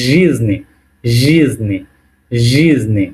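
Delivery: রিজনি with a buzzing "zh" start, "ZHEEZ-nee"; pronunciation demo. Shown as a demonstration. Teacher giving an example word, রিজনি pronounced carefully with "zh". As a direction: model রিজনি as "zheezni", first syllable stressed. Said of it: "বুঝতে পারবো উচ্চারণটা কেমন".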